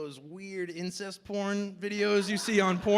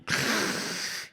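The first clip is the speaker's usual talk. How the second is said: whispered inhaling hiss; 2 semitones higher than usual. Retold or imitated. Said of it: "you go".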